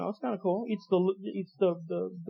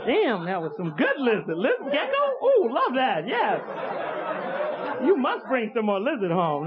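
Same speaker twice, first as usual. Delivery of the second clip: laughing rat. Retold or imitated. Rat chatting about lizard.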